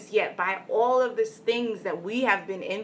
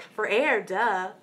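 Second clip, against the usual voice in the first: louder, obvious "For air, duh" like it's plain as day; mock duh tone; 3 dB louder, slower than usual. Boy answering his friend's question, mocking duh tone. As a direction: tease it as the most obvious answer. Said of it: "the way he said it".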